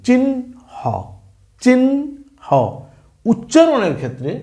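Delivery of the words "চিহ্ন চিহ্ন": চিহ্ন said as "chinho", ন first then a light হ; careful pronunciation demo. Shown as a demonstration. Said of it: "আগে আমি কি উচ্চারণ করতেছি একটু খেয়াল করি". (উচ্চারণ দেখানো: চিহ্ন, আগে ন পরে হালকা হ)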